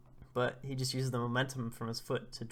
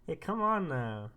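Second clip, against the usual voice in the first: higher, louder giggly protest; tickled girl pushing him away; playful protest; 8 semitones higher, 4 dB louder than usual. Retold or imitated. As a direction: tell him off while laughing. Lulu tickled by licking wolf-boy.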